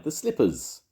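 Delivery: high granny clarification; insistent Grandma. A narrator's reading. Grandma clarifying for the butcher, high insistent.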